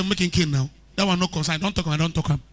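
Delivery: quiet, low Pidgin English dismissal; rough Pidgin brush-off. Retold or imitated. Preacher mimicking an unrepentant man, soft Pidgin. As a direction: mutter it off in Pidgin, no care. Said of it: "Pidgin English ... make a child arrogant".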